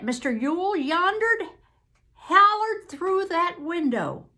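Southern testimony swelling to high, loud urgency; agitated witness. Acted. Witness recounts the incident.

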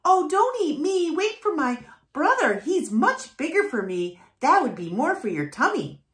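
high, small begging voice; squeaky goat pleading; pleading little goat. A narrator's reading.

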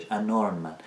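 "an armed man" run together as "a narmed man"; linked n-sound. Shown as a demonstration. Teacher repeating the example, n linked to armed. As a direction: join the n of "an" onto "armed".

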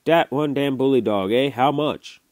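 a wheezy little French-Canadian bargaining eagerly; French-Canadian accent. A narrator's reading. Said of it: "spat broken English".

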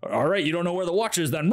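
fast, offhand menace; lightly voiced cop. Cop deciding to kill the husband, offhand quick menace. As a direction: shrug before the kill. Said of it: "the cop guy is just like".

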